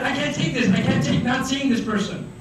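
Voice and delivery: high-pitched mock desperation; inner outcry. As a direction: plead like an overdramatic lovesick inner voice. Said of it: "what goes on inside".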